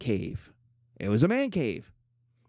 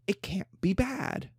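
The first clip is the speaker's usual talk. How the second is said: sarcastic refrain; 5 semitones higher, 5 dB quieter, slower than usual. Acted.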